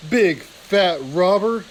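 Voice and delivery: slow, lightly put-on weasel jeer; a hint of a weasel taunting; passable weasel voice. Knopf hides and taunts the guards, lightly voiced weasel jeer. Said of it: "called out in a passable weasel voice".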